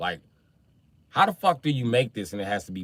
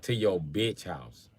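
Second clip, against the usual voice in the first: deadpan comeback; slower than usual. Retold or imitated. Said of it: "I'd be like".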